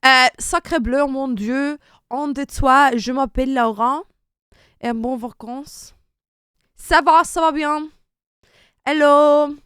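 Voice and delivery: hammed-up French accent; loud, showy French accent. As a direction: play up a cartoon French accent. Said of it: "Your French accent was so good there".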